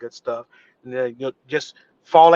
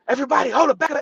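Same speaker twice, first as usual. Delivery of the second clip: urgent call to stop; 10 semitones higher, much faster than usual. Retold or imitated. Director calling out to halt the cast after a fall. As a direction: stop the whole set, hold up.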